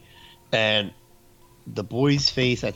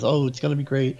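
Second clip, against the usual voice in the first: lightly voiced, higher-pitched aunt; gushing aunt; 5 semitones higher than usual. Aunt keeps saying it to Angela, lightly gushing.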